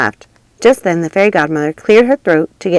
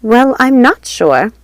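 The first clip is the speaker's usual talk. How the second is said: trailing off; 7 semitones higher, 5 dB louder, much slower than usual. A narrator's reading. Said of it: "voice trailed off".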